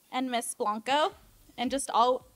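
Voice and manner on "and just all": slow, laughing and teary; laughing through tears. Real, not acted. Sister toasting the couple, slow and laughing through tears. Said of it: "I'm trying not to cry".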